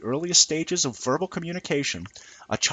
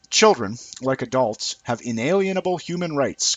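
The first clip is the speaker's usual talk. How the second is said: lightly raised, sing-song parody of a woman arguing; mocking female reasoning; 3 semitones higher, 3 dB louder than usual. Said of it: "goes the screw-loose approximation of female reasoning".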